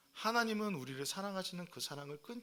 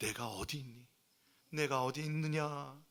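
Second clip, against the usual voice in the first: tender, warm, concerned, pitying voice, calling out; 3 semitones lower than usual. Telling how God called to hiding Adam and Eve, acting warm, worried and pitying. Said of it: "따뜻한 목소리로, 그리고 걱정하고 불쌍하게 여기는 목소리로".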